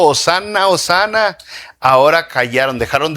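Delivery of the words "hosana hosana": mock crowd cheer. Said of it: "estaban gritando".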